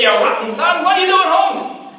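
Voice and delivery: high, loud mock scolding; angry father scolding. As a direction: play the father who scolds his son. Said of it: "He didn't say".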